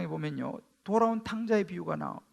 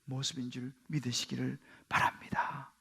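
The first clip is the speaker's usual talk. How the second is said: whisper; 9 semitones lower, 8 dB quieter than usual. Real, not acted. Preaching whisper for emphasis.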